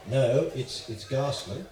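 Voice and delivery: composed, lightly put-on posh English accent. Posh host correcting the Australian's language, calm posh English. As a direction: correct him calmly with a touch of posh English. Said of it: "He has that posh English accent".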